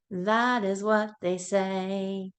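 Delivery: sing-song nursery rhyme voice; reading to a toddler. Acted. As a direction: chant it brightly for little kids. Sing-song animal rhyme for kids.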